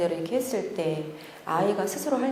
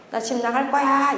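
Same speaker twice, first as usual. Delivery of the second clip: put-on higher, a sulky teen threatening; child's threat; 5 semitones higher than usual. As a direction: toss it like a defiant teen. (집 나가겠다는 아이 흉내)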